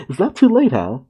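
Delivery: high, giggly reread; laughing. Real, not acted. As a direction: try to say it through giggles. Cracks up rereading the line.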